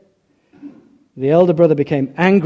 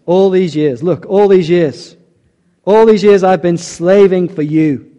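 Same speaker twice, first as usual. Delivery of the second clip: mock bitter complaint; 3 semitones higher, 5 dB louder, slower than usual. Voicing older son's resentment.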